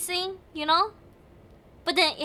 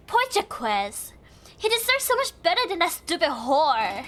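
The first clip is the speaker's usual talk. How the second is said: put-on light Valley Girl accent reading a note; lightly voiced Valley Girl accent, catty. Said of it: "this is my Valley Girl accent".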